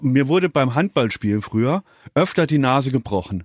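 a bit nasal, one side blocked. Real, not acted. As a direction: speak slightly through the nose. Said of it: "dass ich so ein bisschen nasal rede".

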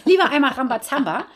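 said through a chuckle; amused. Real, not acted. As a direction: laugh lightly into the words. Laughs at her found word.

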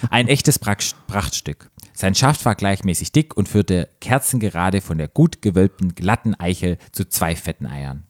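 measured read-aloud narration; story narration. A narrator's reading. Host reading a story to co-host, measured narration.

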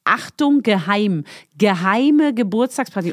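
emphatic, word-by-word announcement; slowing down on a secret notice; big-print warning. Retold or imitated. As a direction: read it out like a big headline. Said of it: "da stand ganz groß drüber".

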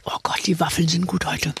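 hushed whisper about waffles. Real, not acted. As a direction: breathe it out under your breath. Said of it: "hab vor allem gedacht".

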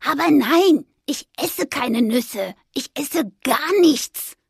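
slow, airy ghost voice; a harmless ghost calmly explaining; gentle ghost. Acted. Anton tells the squirrel he eats nothing, slow gentle ghost.

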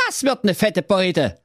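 cartoonish young prince answering his father; dopey prince. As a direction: play the obedient prince, a bit dim. Prince voiced in story.

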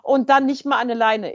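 loud, high, ranting accusation; dog owner yelling accusations on a country road; angry shouting. Retold or imitated. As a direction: bark the blame at her, furious. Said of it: "Und sie dann so".

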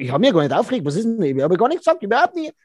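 schnell, abwehrend, zum Schluss hoch; leicht beleidigt alles abstreiten; gespielt gereizte Abwehr. Acted. Gespielter Streit um Netflix. (Partnerin wehrt sich gereizt gegen den Vorwurf)

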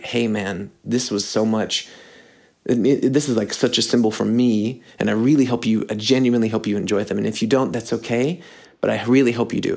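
earnest, everyday-voiced appeal; mean it simply, like confiding in a friend; sincere and genuine. Giving a close friend meaningful socks, sincere. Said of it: "like, sweet and genuine".

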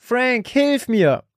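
wife straining in the smoke, desperate plea; desperate groan. A narrator's reading. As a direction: strain out a cry for help. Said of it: "ächzte Sarah verzweifelt".

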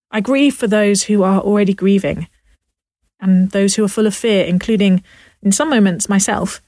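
speaking from under a duvet; muffled, covered by bedding. Real, not acted. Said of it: "I'm also sitting under this duvet".

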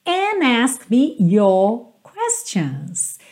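"And ask me your questions" drawn out slowly; slow song line demo. Shown as a demonstration. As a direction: read the lyric very slowly. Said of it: "song line demo".

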